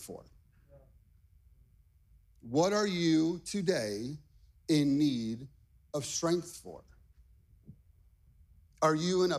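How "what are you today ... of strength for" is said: slow question with pauses between phrases; spaced out, letting each phrase land; slow, deliberate question. Shown as a demonstration. Preacher putting the question to the congregation, slow and deliberate. Repeats question slowly for emphasis.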